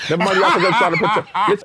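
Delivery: laughing. Real, not acted. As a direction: laugh it off fast. Joking protest to the hosts.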